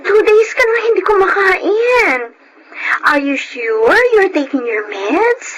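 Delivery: distressed, crying and rising high; tearful worry. Acted. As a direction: scold her gently through tears. Friend frets over Jade, crying.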